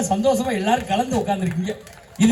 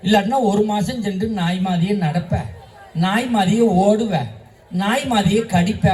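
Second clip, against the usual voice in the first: lightly acted teacher warning a pupil; teacher's warning. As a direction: spell out each consequence like a mildly scolding teacher. Teacher warns pupil about dog bite. (மாணவனை லேசாக எச்சரிக்கும் ஆசிரியர் தொனி)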